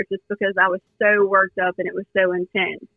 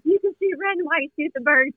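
retold urging; 7 semitones higher than usual. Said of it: "R P yells at me".

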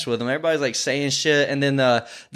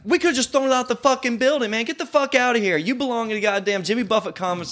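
much higher ranting yell; mock yell; 5 semitones higher than usual. Yelling at the guy, high mock rant. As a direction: tear into him with a mocking rant. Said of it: "I yelled at the guy".

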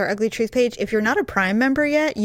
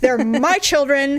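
haughty English accent; 3 semitones higher, slower than usual. Shown as a demonstration. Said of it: "You get this haughty, like, almost English accent".

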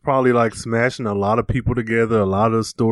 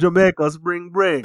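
slow mock Jamaican accent; 4 semitones higher than usual. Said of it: "He sounds like a rapper".

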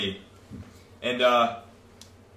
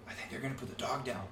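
much softer, imitating the girl; quietly retold; 17 dB quieter, faster than usual. Girl telling him at lunch about the dog, quietly retold. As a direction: drop the volume to voice her bad news.

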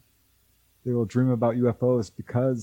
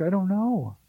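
tearful; 3 semitones higher than usual. Retold or imitated. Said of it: "she started tearing up".

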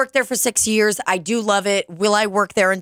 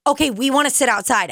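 customer voice; 7 semitones higher, faster than usual. Retold or imitated. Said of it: "they'll go".

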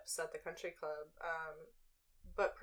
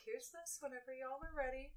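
light, higher server's patter, kept soft; customer service voice; 7 semitones higher, 10 dB quieter than usual. Shown as a demonstration. Server dropping the check at the country club, customer service voice. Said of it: "snuck in a little of the voice".

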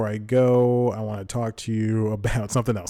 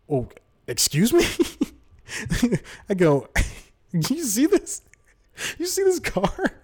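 rising, indignant, pitched way up; climbing higher in mock outrage; outraged disbelief; 11 semitones higher than usual. Comedian to ungrateful stranger, shrill mock indignation.

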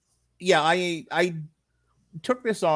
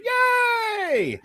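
excited cheer. Pretend. Cheering own intro.

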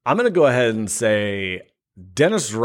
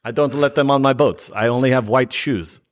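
put-on Russian accent slipping elsewhere; different accent. Russian envoy fussing about his boats, drifting foreign accent. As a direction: let the fake Russian accent wander off. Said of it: "did we travel into a different accent".

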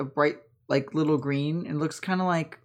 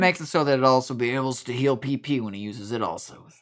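low-voiced Zane, explaining; 4 semitones lower than usual. Man explains how Togepi heals, low character voice. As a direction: lower character voice.

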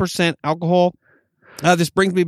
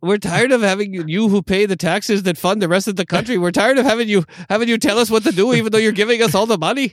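higher-pitched mock grievance; hammed-up indignant griping; mock complaint; 4 semitones higher than usual. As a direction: rant as a fed-up California-hater, played for laughs. Mimics people who insult California.

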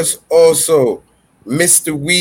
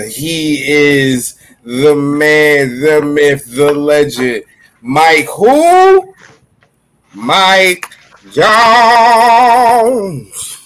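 hype announcer; 3 dB louder, much slower than usual. Acted. Hyped announcer introduces Mike.

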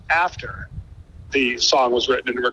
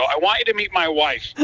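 high nervous voice; 12 semitones higher than usual. Retold or imitated. Introducing wife to Gretzky, nervous joke.

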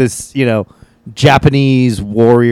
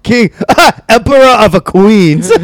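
put-on high, loud caricatured Asian accent; 10 semitones higher, 5 dB louder than usual. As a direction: declaim it in a broad Asian accent. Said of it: "doing a really thick Asian accent".

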